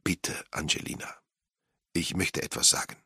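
soft, gentle request; calm her down quietly; hushed, tender appeal. A narrator's reading. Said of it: "sagte er sanft zu ihr".

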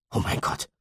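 breathless murmured gasp of shock; barely voiced, stunned. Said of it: "murmelte Chester". (gehauchtes, erschrockenes Murmeln)

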